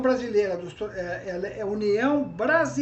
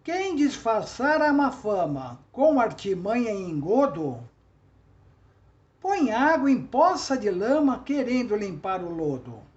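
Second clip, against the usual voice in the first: poem recitation; 3 dB louder than usual. Shown as a demonstration. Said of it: "Por exemplo".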